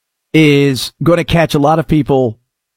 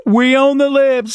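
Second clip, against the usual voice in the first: raised, smug boast; mock gloat; 7 semitones higher than usual. Host mocking partisan gloating, smug boast. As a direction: brag it like a gloating fan. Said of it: "I just go".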